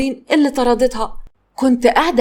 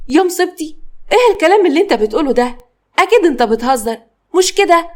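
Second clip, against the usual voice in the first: shocked; 5 semitones higher than usual. Acted. Wife on the phone hearing her husband's arrest, shocked high cry.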